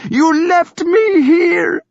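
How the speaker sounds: slow, high, loud crying accusation; accusing cry. A narrator's reading. Thyra accusing her brother, crying. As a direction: cry the blame at him. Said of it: "she accused him".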